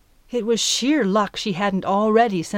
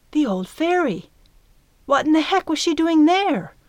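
astonished; 8 semitones higher than usual. Acted. Midge's astonished thought.

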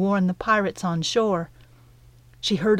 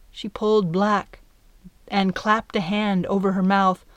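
ordinary delivery

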